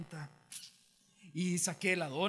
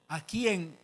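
louder "aquí en", left hanging; acted phone answer; 6 dB louder, slower than usual. Telling a friend where he is, louder cut-off answer. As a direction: start answering firmly, then break off. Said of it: "así dije".

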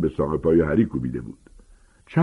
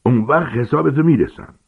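a mild acted roar, pitched higher; roaring threat; 6 semitones higher, 4 dB louder than usual. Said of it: "نعره زد".

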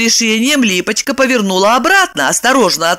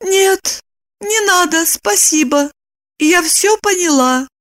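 doomed calm; 11 semitones higher than usual. Acted. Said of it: "с обречённым спокойствием промолвила".

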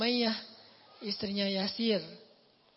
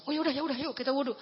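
higher, quick relieved agreement; the wife relieved, urging her husband to pray, higher pitched; 4 semitones higher, faster than usual. Retold or imitated. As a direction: settle it at once and move.

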